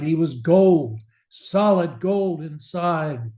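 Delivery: measured, feelingful verse reading; poem recitation. Acted. Speaking coach reciting Kipling to listeners, expressive verse. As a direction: read the ballad with rhythm and feeling.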